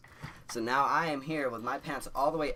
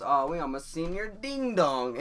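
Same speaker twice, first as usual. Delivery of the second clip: higher, louder, slow tease through laughter; teacher teasing the class, half laughing; 6 semitones higher, 7 dB louder, slower than usual. Retold or imitated. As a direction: laugh as you mock the kid. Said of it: "The teacher goes".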